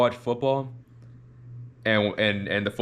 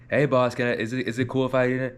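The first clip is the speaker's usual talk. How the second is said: higher-pitched, eager-to-please asking; pitched-up voice for asking the boss; slightly raised voice; 4 semitones higher than usual. Shown as a demonstration. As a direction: raise the voice up a bit, deferring to the boss. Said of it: "raise my voice up just a little bit".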